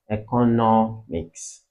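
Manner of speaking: "economics" slowly, leaning on the NOM; slow teaching demo of "economics", third syllable stressed. Shown as a demonstration. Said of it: "has the same stress as education".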